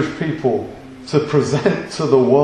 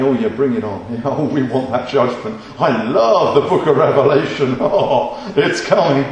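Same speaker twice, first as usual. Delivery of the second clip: mocking self-righteous. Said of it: "the self-righteous amongst us would be going".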